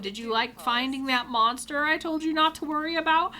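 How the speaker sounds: high, loud mocking imitation; taunting. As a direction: rub it in like a gleeful, teasing friend. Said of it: "he's taunting me at this point".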